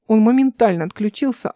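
usual speaking voice

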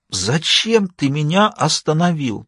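slow, tearful half-whisper; a touch of crying, hushed and slow; whispered sobbing. Acted. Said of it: "прошептал сквозь слёзы Норта".

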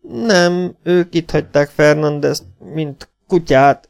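high, panting words. Acted. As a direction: gasp it out with burning eyes. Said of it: "lihegte villogó szemmel". (magas, lihegő hang)

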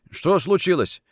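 puzzled question. Acted. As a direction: ask the visitor what is wrong. Sick man asks, then is echoed.

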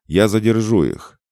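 loud, high battle shout. A narrator's reading. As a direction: call it out over the fight. Commander shouting under attack.

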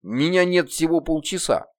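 lightly voiced demon sarcasm; dry sarcasm. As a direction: needle them dryly. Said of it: "со скрытым сарказмом сообщил".

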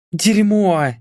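a sharp high swear word, voicing the blonde; cursing. A narrator's reading. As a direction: spit out a curse in panic. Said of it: "выругалась блондинка".

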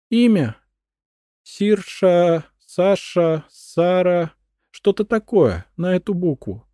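high, loud straining to remember; tormented searching; pained recalling. A narrator's reading. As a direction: dredge up the name in agony. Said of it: "страдальчески нахмурилась".

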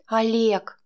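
a hint of a stern mother; firm warning on the name; mildly stern mother calling his name. A narrator's reading. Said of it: "строго взглянула она".

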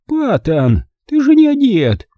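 put-on high, scandalised old woman; granny's high-pitched indignation; indignant. A narrator's reading. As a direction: protest in outrage, shooting up in pitch. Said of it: "вознегодовала старуха Бон".

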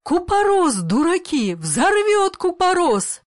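urgent high cry, the last phrase drawn out slowly; alarmed shout. A narrator's reading. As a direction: warn them the vitriol will explode. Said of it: "вскрикивая".

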